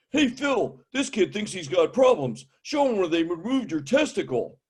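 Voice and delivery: high, lightly voiced old codger; boastful old man. Old man calling to his friend to show off, high and boastful. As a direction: call to a buddy, showing off. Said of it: "they got macho on me".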